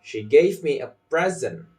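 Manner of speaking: "present" stressed on the first syllable; stressed noun PRESENT. Shown as a demonstration. Teacher models a practice sentence, first-syllable stress on "present". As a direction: lean on PRES in "present". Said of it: "practicing like this".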